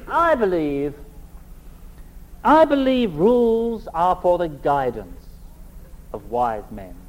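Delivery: slow, smiling, genial delivery of the rule; beaming, disarming. Retold or imitated. Warden welcoming new students, beaming and disarming. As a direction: lull them with a broad friendly smile. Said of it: "With a broad smile, he would say".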